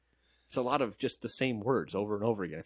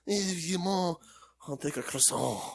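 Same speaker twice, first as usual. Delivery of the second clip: mock French accent; 5 semitones higher than usual. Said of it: "Why is my French".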